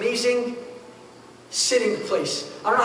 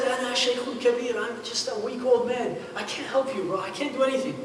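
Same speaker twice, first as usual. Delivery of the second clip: put-on frail old man; 5 dB quieter than usual. Old man refusing to help.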